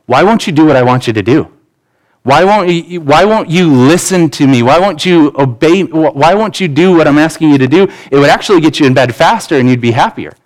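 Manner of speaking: mildly exasperated parent pleading; irritated. Retold or imitated. Dad to son who won't obey at bedtime, mildly irritated. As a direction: act out a frustrated dad's insistent questions. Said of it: "I'm irritated by him".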